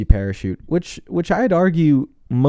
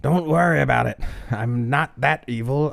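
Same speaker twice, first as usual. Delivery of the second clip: megalomaniac rant; 4 semitones higher than usual. Retold or imitated. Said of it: "And he's like".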